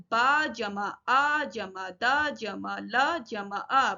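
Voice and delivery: slow spelling of बादल, each sound apart; measured classroom spelling-out; sounded out separately. Shown as a demonstration. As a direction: recite the breakdown slowly, part by part. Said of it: "अलग-अलग करके लिखना या पढ़ना".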